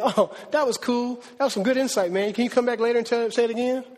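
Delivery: casually impressed listeners. Acted. Unconvinced listeners asking Paul back, casually impressed. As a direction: play a pleased but unconvinced listener, voice lifted. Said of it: "some of them said".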